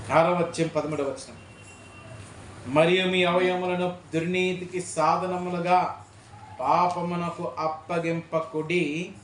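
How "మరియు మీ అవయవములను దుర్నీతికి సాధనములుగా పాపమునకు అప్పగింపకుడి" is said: measured, slow verse reading; scripture reading. Acted. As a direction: read the verse out formally. Reads a Bible verse aloud.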